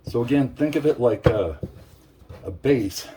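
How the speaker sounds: winded from mashing; breathless, catching air between words; out of breath. Real, not acted. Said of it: "I'm getting out of breath".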